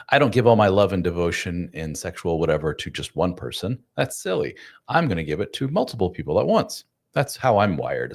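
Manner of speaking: lightly mocking someone else's declaration; breezy, slightly flippant imitation with swooping emphasis; flippant mock quote. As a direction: toss it off as a glib self-justification. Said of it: "It sounds like I'm kinda being flippant".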